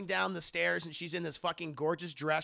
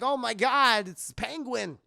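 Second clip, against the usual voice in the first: higher, startled impression with swooping pitch; Christopher Walken; 4 semitones higher, 5 dB louder, slower than usual. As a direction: cry it out in mock alarm, then fall away. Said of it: "And Christopher Walken's like".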